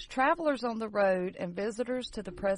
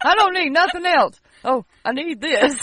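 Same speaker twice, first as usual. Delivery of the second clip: greedy ghost voice; 5 semitones higher, 10 dB louder than usual. Pretend. Voicing ghost stealing tools.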